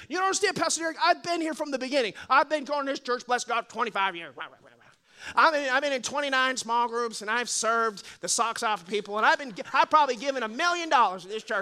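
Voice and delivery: mock a churchgoer protesting; indignant churchgoer. Longtime member protests to the pastor, mock indignant. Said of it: "Yeah, I understand".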